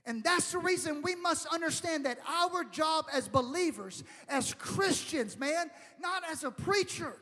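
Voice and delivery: emphatic pulpit delivery with stretched key words; urgent preaching. Real, not acted. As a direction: drive the appeal home to the congregation.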